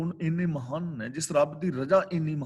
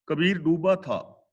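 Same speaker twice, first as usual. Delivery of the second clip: verse recitation; slower than usual. Shown as a demonstration. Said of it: "ਅਗਲਾ ਬਚਨ".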